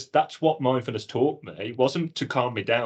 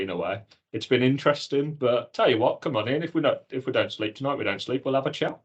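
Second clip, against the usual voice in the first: casual welcome. Retold or imitated. Chats to alter ego Seth returning.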